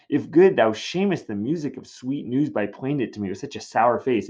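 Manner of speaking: high, loud, impatient pleading; impatient Juliet. Acted. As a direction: demand the news, pitched high. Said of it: "she's messing with her".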